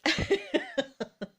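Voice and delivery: high, loud burst of laughter. Real, not acted. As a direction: laugh out loud at your own remark.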